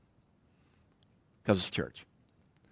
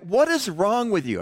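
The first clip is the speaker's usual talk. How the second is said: drill instructor yelling; 8 semitones higher, 3 dB louder than usual. Retold or imitated. Drill instructor explodes at recruit.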